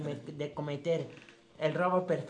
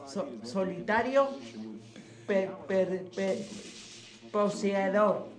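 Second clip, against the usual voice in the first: drawn-out reading; slower than usual. Real, not acted. Reading the film plot aloud, slow drawn-out delivery. Overdone halting reading, draws laughs.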